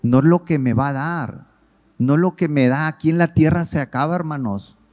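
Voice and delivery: loud, high, urgent sermon delivery; insistent preaching. Real, not acted. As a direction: press the point hard.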